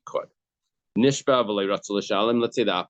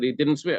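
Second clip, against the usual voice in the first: DIDN'T lifted higher in pitch; stress on DIDN'T; 5 semitones higher than usual. Shown as a demonstration. Teacher pointing students away from paid, stress on didn't. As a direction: make didn't the key word. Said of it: "Don't look at the paid part".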